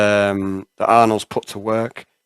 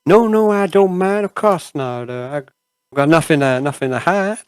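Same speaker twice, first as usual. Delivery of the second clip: higher, hesitant character voice; higher-pitched nurse, stumbling over her denial; startled nurse, Melissa; 6 semitones higher, 4 dB louder than usual. Acted. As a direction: protest lightly that all is fine, a touch startled. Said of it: "She looks a little startled".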